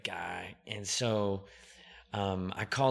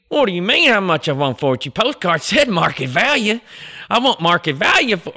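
Cooter Scoots hick voice; 11 semitones higher, 19 dB louder than usual. Acted. Prank-calling a land investor in an exaggerated Southern accent. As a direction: play a rural Southern landowner in a thick Southern accent. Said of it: "I said".

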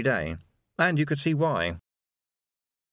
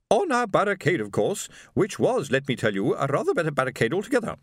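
high-pitched, self-important boast; haughty wife; 7 semitones higher than usual. A narrator's reading. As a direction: lord it over him like a grand lady. Haughty wife boasts of their barricade.

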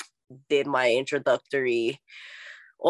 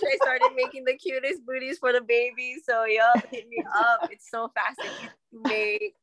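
excited plug; 7 semitones higher than usual. Real, not acted. Excitedly plugging her crochet booties.

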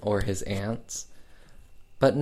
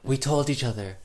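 Faye Dunaway as Barbara. Retold or imitated. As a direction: draw each phrase out with unvarying attitude. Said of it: "one attitude. It's always very".

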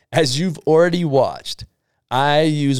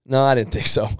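mock-innocent sarcastic teasing. Shown as a demonstration. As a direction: needle the customer with fake sympathy. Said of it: "when I say sarcasm, it's like".

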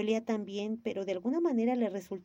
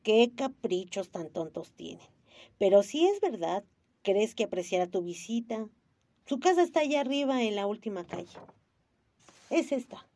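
sour man. Acted. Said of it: "dijo agrio".

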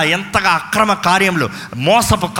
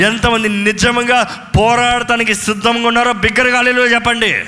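rousing call; 3 semitones higher than usual. Real, not acted. Calls congregation to shout.

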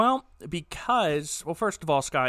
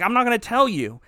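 higher, louder defiant refusal; hammed-up defiant old man; old man refusing; 7 semitones higher, 5 dB louder than usual. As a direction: play it like a stubborn old curator. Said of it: "Sauniere's like".

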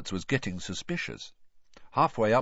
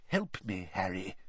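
softer, under his breath; muttered; 3 semitones lower, 7 dB quieter than usual. A narrator's reading. Mr Weasley asks Harry for help with money, muttering. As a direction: mutter it so the owner can't hear. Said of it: "he muttered".

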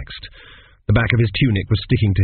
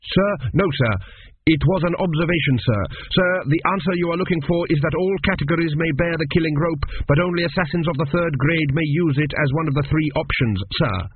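nervous student; 6 semitones higher than usual. Acted. Student answering under pressure.

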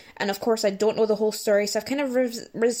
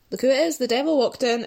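muttered to herself; 3 semitones higher, faster than usual. Retold or imitated. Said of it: "the way she says it, just to herself".

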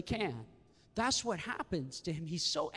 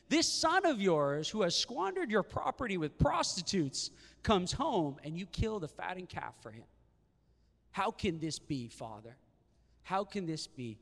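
angry son. Acted. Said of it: "he's angry".

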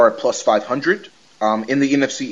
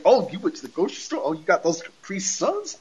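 gleeful snack grab; 5 semitones higher, 4 dB louder than usual. Pretend. Stepdad eyeing kid's snacks.

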